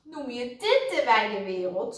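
snapped, disbelieving question; cross little retort; indignant snap. A narrator's reading. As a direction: throw it back, snappish. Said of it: "snauwde Suzy".

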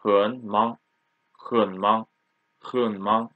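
low hen, rising mang in hen mang; repeated hen mang, hen low and mang rising; half third tone. Shown as a demonstration. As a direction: keep hen down, lift mang. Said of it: "half third tone".

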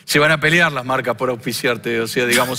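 Argentine politician impression, lightly voiced; Javier Milei impression. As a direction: talk like Milei with a halting "o sea, digamos". Impersonates Milei throughout.

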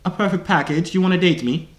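mock British accent; put-on British. Asking where a stranger lives, put-on British accent.

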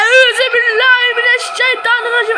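loud, high panicked prayer; frightened prayer. Real, not acted. Jump scare in horror game.

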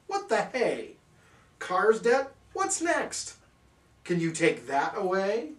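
high, incredulous questions; aghast. Acted. Narrator aghast at the cat's trick, high and incredulous. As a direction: climb in disbelief.

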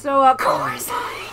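slow, breathy whispered aside. Real, not acted. Streamer whispering to chat that her friend is dying. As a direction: lean in and whisper the news.

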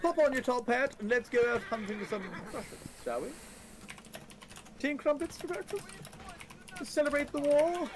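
hammed-up British accent, lifted in pitch. Asked by chat to sound British, hamming up the accent. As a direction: lay the Britishness on even thicker. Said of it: "asked to do my British accent".

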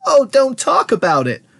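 high, distressed wail. A narrator's reading. Mother wailing at her husband's gruesome description. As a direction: wail it, begging them to stop. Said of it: "wailed Missus T V".

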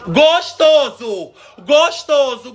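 high, loud, stretched-out cry; mock-swooning high holler; teasing call. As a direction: draw it out loud and high to goad the dog. Teases the dog loudly.

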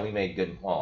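usual speaking voice

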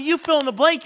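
ordinary talk, nothing marked

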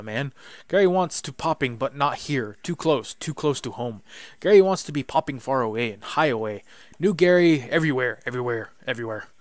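excited goblin. Acted. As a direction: bounce through the hello like a giddy goblin. Goblin Gary voiced.

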